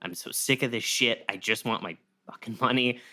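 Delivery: mock cursing. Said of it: "he's just cursing".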